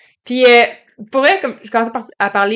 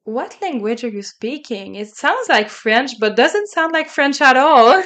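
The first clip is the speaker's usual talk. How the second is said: imitating an American man; much slower than usual. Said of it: "il y a un monsieur qui arrive qui est comme".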